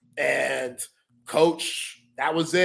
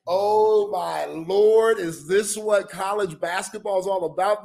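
higher, drawn-out "oh my Lord" amazement; stunned disbelief; 4 semitones higher than usual. Retold or imitated. Player watching coach explode, stunned disbelief. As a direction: recall being aghast on the sideline. Retells his stunned reaction from sideline.

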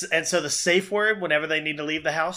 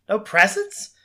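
high, loud mock kid outburst; hammed-up child's complaint, getting higher and louder; little niece impression; 9 semitones higher, 5 dB louder, slower than usual. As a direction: protest like an indignant little girl.

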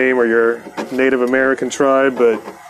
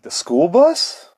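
higher and slow, in mock disbelief; incredulous question; 7 semitones higher, slower than usual. To the strange caller asking where George parked, incredulous. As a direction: stretch it out like the question makes no sense.

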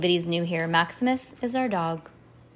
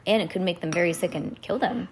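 ordinary delivery, nothing marked

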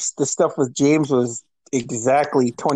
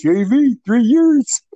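high mock holler, rising in pitch; imitating a friend's heckle; imitated parting taunt; 8 semitones higher, 4 dB louder, slower than usual. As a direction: toss it out high as a teasing call. Imitating friend calling while leaving.

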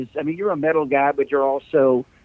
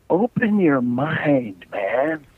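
slow mellow hippie drawl; 2 semitones higher, much slower than usual. Shown as a demonstration. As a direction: stretch it out like a laid-back hippie. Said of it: "I sound like a hippie".

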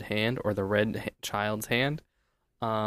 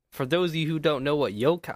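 put-on southern accent; 4 semitones higher than usual. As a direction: say it with a hint of Southern twang. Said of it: "I don't know why I'm doing a southern accent".

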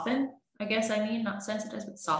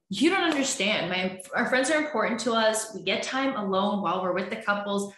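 defensive partner; 2 semitones higher than usual. Retold or imitated. Partner insisting friends matter, defensive and raised. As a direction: pitch jumps up, indignant and defensive.

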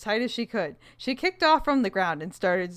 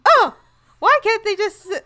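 character voice; 12 semitones higher, 6 dB louder than usual. Acted. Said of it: "I'm reading Mel's line".

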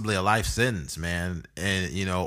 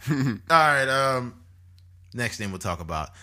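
ordinary talk, nothing marked

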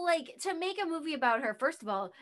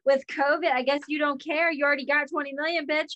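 sarcastic, loud, mocking corporate voice; snarky mock statement; mocking Disney; 3 semitones higher, 7 dB louder than usual. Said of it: "they put her on blast".

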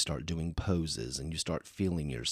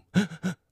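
gasp; 14 semitones higher, 5 dB louder than usual. Retold or imitated. Emotional gasp about song.

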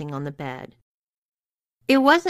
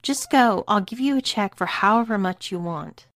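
higher, mildly urgent plea; pleading; 4 semitones higher than usual. Acted. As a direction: bargain desperately, pitch lifted. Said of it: "immediately began pleading".

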